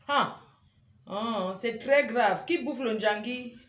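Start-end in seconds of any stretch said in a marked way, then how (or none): 1.1-2.5 très drawn out and stressed, slow; slow emphatic warning. Acted. Streamer insisting to viewers it is very serious, très stretched slow. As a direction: lean hard on très, very slowly.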